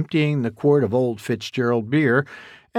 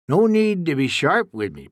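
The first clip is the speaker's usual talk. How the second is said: pouting; 4 semitones higher than usual. Acted. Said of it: "pouted Duke".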